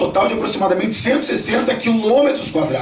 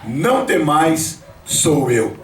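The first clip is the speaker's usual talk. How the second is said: fala pausada e grave; slow words, dropping low at the end; Jesus; 3 semitones lower, much slower than usual. Acted. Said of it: "o Senhor Jesus diz pra eles". (voz de Jesus, lenta e grave)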